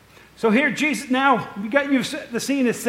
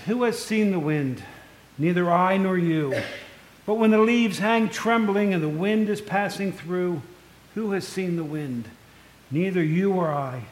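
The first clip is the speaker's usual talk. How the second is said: measured poem recital; poem reading. Acted. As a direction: read the verse gently, with care. Reads Rossetti's poem.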